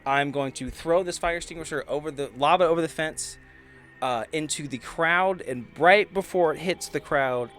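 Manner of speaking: usual speaking voice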